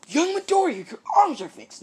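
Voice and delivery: high, loud, laughing cheer; All Might laughing loudly with joy; laughing delight. Acted. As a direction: laugh out the good news.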